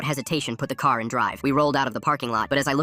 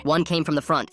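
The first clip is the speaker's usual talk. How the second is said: ordinary delivery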